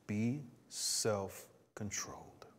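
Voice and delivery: slow, hushed, voiceless "be self-controlled"; slow whispered emphasis; emphatic whisper. Acted. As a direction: lean in and whisper the key phrase. Preacher driving home the meaning.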